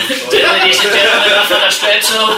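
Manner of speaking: announcer voice. Pretend. Mock announcer echoing line 23.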